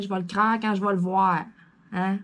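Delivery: casual Québécois pronunciation of "croire"; accent québécois. Real, not acted. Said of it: "avec mon accent québécois". (accent québécois familier)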